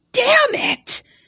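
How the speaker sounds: mock very high, shrill, loud, furious exclamation. Retelling a man whose scarf fell into the noodles, imitating an angry outburst. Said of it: "is like really mad about his scarf".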